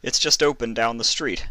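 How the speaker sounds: lightly voiced young assistant; calmer assistant. A narrator's reading. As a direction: explain to the boss. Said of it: "a bit calmer now".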